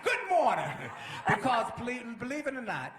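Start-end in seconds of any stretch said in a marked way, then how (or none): 0.0-0.7 high, loud mock-cheery shout; exuberant, full-voiced call; hollered greeting. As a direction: holler it as if it were morning. Greeting shouted at night, acted.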